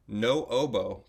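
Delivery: slow British-accented no oboe. Shown as a demonstration. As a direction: say no oboe like a posh Briton, lips drawn in. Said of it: "but with a fancy British accent".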